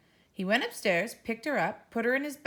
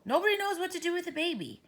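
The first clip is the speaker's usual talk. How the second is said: put-on exasperated child; 11 semitones higher, faster than usual.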